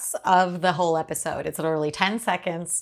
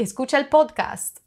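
higher-pitched, podcast said with Spanish vowels; Spanish accent; 8 semitones higher, 3 dB louder than usual. Shown as a demonstration. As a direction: say podcast the Spanish way, "pohd-kahst". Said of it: "it just sounds so different".

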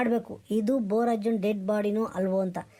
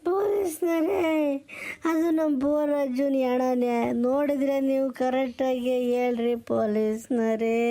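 tearful pleading. Acted. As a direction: cry out to the police, half sobbing. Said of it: "ಅಳ್ತಾ ಕೂತ್ಕೊಂಡಿದ್ದಾನಲ್ರಿ". (ಅಳುತ್ತಾ ಬೇಡುವ ಧ್ವನಿ)

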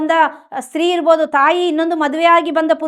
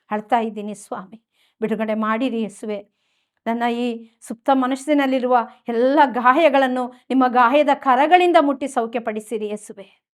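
lowered, entreating prayer; subdued pleading prayer; 3 semitones lower than usual. Acted. Preacher praying as the wounded child to Jesus, subdued pleading.

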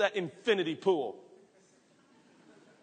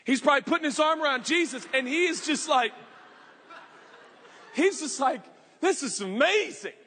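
pumped Zacchaeus; 3 semitones higher than usual. Acted. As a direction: burst out like an overjoyed little man. Preacher acting out excited Zacchaeus.

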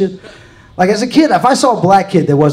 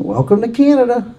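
sweet Canadian welcome; 5 semitones higher than usual. Retold or imitated. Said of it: "They're like".

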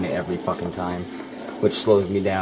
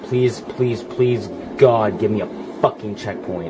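pleading louder and louder; desperate pleading; 2 semitones higher, 7 dB louder, slower than usual. Real, not acted. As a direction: beg God out loud. Begging game for a checkpoint.

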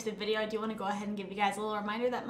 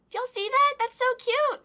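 high, loud cute-overload squeal; gushing delight; 13 semitones higher, 7 dB louder than usual. Real, not acted. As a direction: squeal it to the viewers, thrilled. Gushing over gift pin.

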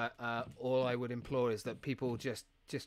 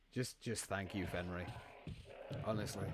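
low, soft, heartfelt gratitude; real gratitude, quietly spoken; sincere thanks; 5 semitones lower, 8 dB quieter than usual. Real, not acted. Streamer thanking a generous donor, quiet sincere thanks. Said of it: "in the most sincerest way I can say".

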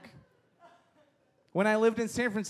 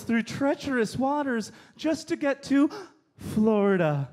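mock outrage; 6 semitones higher, slower than usual. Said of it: "I want to respond with".

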